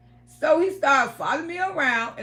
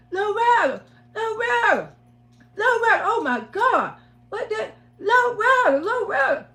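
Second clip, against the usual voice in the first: high, loud panicked calling of her name; frantic calling; 8 semitones higher, 4 dB louder than usual. Retold or imitated. Abusive boyfriend panics, calling her name to wake her. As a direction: shake her awake with your voice, panicking.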